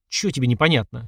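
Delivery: ordinary delivery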